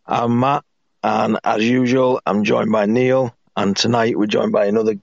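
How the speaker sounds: hoarse, rough croaky throat. Real, not acted. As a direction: talk through a croaky sore throat. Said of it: "Apologies for my croaky voice".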